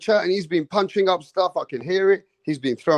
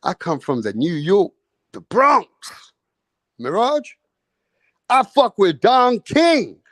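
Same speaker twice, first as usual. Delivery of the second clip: hammed-up New York brag. Imitating Rick Glazier boasting to Mirage, hammed-up brag. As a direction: puff up like a Bronx tough guy. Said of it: "Rick Glazier's like".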